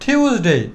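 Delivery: টিউসডে with an aspirated t, "thiuz-dei"; corrected pronunciation. Shown as a demonstration. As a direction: puff air on the first sound of টিউসডে. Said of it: "টিউসডে না বলে বলবো". (টিউসডে-কে "ঠিউজডেই" বলা)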